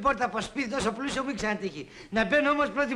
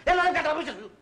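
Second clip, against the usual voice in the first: higher, impatient order; exasperated shouted order; raised voice; 4 semitones higher than usual. Acted. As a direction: raise your voice to hurry someone along. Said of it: "Καλά, δεν φωνάζεις".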